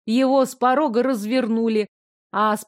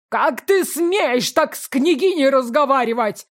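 higher, squealing outraged yelp; falsetto squeal; 4 semitones higher, 4 dB louder than usual. Acted. Steward defends the princess, squealing falsetto. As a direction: shriek it in a thin falsetto. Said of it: "взвизгнул фальцетом староста".

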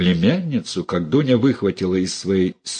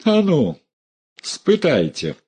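defiant challenge; 7 semitones higher than usual. A narrator's reading. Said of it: "раздула ноздри Дуня".

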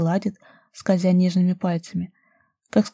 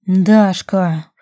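loud growled name; desperate lover growling her name, loud; 8 dB louder than usual. A narrator's reading. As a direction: roar her name in frustration. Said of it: "прорычал Рус".

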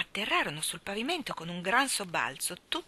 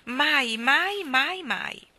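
louder, higher repeated mai; eager insistence; 7 semitones higher, 6 dB louder, much slower than usual. Acted. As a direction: insist warmly, rising then falling away. Jane insists fondly.

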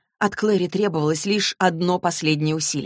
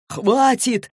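sudden furious roar, pitched up; 7 semitones higher than usual. A narrator's reading. Valentine roaring at Clary and Jace, furious. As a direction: bellow it as he draws the sword. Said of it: "заревел он".

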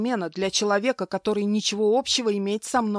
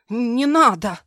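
higher, louder frightened cry; desperate plea; 5 semitones higher, 8 dB louder, slower than usual. Acted. Wife pleads with her attacker, loud frightened plea. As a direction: beg him to stop. Heroine begs.

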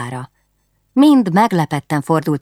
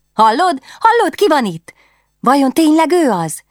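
high, eager questions; barely containing delight; excited princess; 11 semitones higher, 5 dB louder than usual. Acted.

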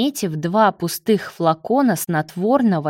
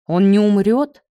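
mildly alarmed question; a touch of worry; anxious; 2 semitones higher, 4 dB louder than usual. A narrator's reading. Marat asking whether Leo will survive, mildly anxious. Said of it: "с тревогой спросил Марат".

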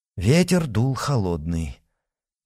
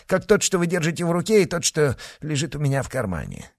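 higher put-on Irish accent; 5 semitones higher, faster than usual. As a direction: fake Irish brogue, higher and brisk. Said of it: "имитируя ирландский акцент".

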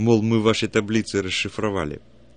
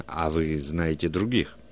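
usual speaking voice

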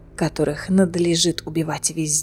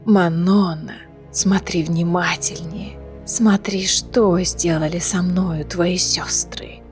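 soft, low, breathy whisper with a throat injury; broken hoarse whisper; 3 semitones lower, 5 dB quieter than usual. A narrator's reading. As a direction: whisper through a ruined throat. Dying prisoner taunts Manon.

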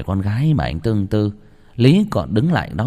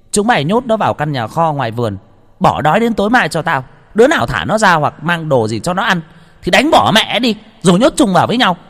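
higher, louder, harsh command; cruel order; 8 semitones higher, 5 dB louder than usual. A narrator's reading. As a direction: order the punishment with cold cruelty. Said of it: "ả ra lệnh". (cô chủ ra lệnh tàn nhẫn, gắt gỏng)

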